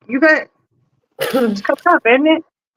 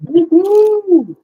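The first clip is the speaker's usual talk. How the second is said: excited cheer; 11 semitones higher than usual. Real, not acted. Cheering the surgery countdown.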